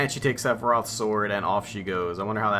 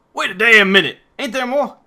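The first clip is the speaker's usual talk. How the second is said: higher, much louder indignant yell; outraged shout; 13 semitones higher, 12 dB louder than usual. Acted. Barret yelling at Cloud for the rest of the story, outraged shout.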